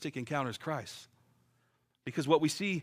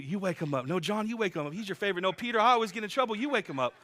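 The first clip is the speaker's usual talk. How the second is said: mock squabble; 4 semitones higher, faster than usual. Disciples squabble over waking Jesus.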